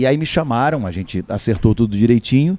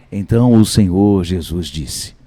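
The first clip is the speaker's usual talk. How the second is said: narrator voice; 5 semitones lower, slower than usual. Shown as a demonstration. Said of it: "Aí eu fazia a voz".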